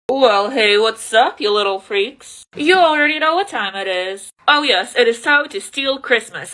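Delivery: a loud, hammed-up Grinch greeting. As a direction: greet the viewers as the Grinch plotting to steal Christmas. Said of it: "These Grinch fingers".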